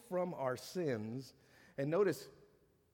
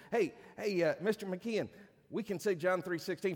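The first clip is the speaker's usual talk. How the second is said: put-on eager little boys; 5 semitones higher than usual. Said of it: "We said".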